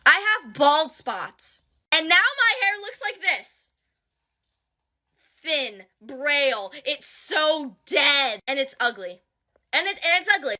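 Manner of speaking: slow, drawn-out words, close to tears; upset, dragging each word out; tearful distress. Real, not acted. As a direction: lament it word by word, holding back crying. Tearful over losing her hair.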